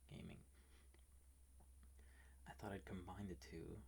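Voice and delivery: hushed whisper for ASMR. Real, not acted. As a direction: whisper so the roommate sleeps. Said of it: "I'm whispering because".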